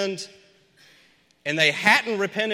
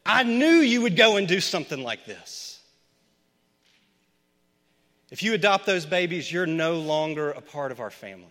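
cold, changed voice; 3 dB louder than usual. Retold or imitated. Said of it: "her voice had completely changed".

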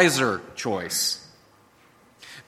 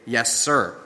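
quiet sincere yes sir; 5 semitones lower than usual. Shown as a demonstration. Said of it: "then say".

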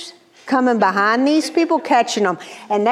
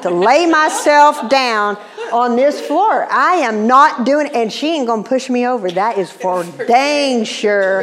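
acted-out indignant protest, building louder; mock upset; 2 semitones higher, 3 dB louder than usual. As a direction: comically dig in your heels with God. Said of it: "And I was upset".

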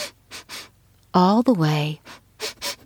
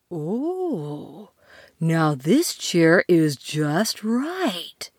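content; much slower than usual. Acted. Content in right chair.

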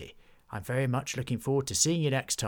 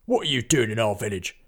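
firm challenge, a bit louder; demanding; 5 dB louder than usual. Acted. Henry confronting the necromancer, demanding. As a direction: demand an answer. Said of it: "demanded Henry".

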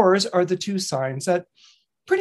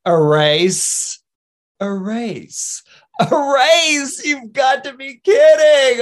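rising to a loud, higher scoff; mocking hare shout; 7 semitones higher, 6 dB louder, slower than usual. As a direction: build from disbelief to a loud jeer.

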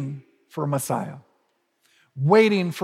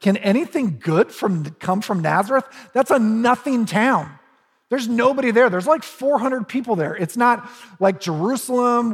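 mock scoff, a bit higher in places; 3 semitones higher than usual. Nathanael scoffing at Philip's news, lightly mocking. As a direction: lightly scoff at a small town. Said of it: "He scoffs at him".

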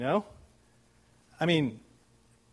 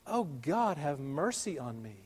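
pleading cry; 4 dB quieter than usual. Acted. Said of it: "causing you to cry out".

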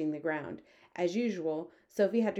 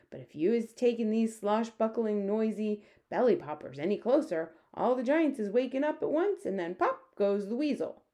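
lightly voiced storybook giant; a hint of an earnest, cautioning giant; friendly giant warning; 4 semitones higher than usual. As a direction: warn them in a slightly raised giant voice.

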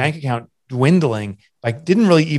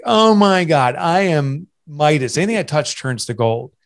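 big, drawn-out self-important gush; mock boast; 4 semitones higher, slower than usual. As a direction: play up your old cocky self, starting high. Mocks his own past cockiness.

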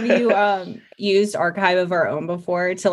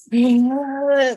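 gasping breath; 6 semitones higher, 3 dB louder than usual. Retold or imitated. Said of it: "taking deep breaths in the middle of trying to read it".

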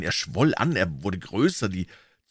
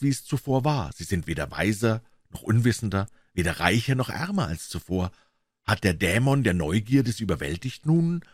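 lightly voiced menacing stranger, urging and tempting; understated sinister visitor coaxing the doctor. Hyde's speech to Lanyon.

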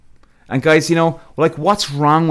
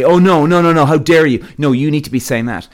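mock-outraged scolding, louder; 4 dB louder than usual. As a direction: sneer it like an offended scold. Mocking the bullies' scolding voice.

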